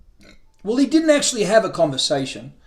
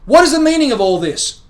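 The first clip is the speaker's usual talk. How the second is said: loud, higher exasperated outburst; raging; 7 semitones higher, 7 dB louder than usual. A narrator's reading. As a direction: throw the question at the sky. Man raging on the porch.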